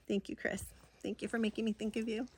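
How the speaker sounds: whispered thanks, half teasing; playful whisper. Real, not acted. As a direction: breathe it to Chris like a secret. Teasing thanks to friend Chris.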